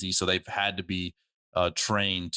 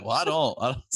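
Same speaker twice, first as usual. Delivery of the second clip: surfer voice; 5 semitones higher than usual. Retold or imitated. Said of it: "He's like".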